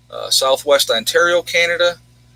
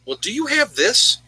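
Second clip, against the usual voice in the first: higher, mock questioning voice; imitating Mom asking; 10 semitones higher than usual. Mom and Beck asking the prepper, in a high mock voice. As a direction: playfully imitate family asking for supplies. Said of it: "So Mom and Beck will say to me".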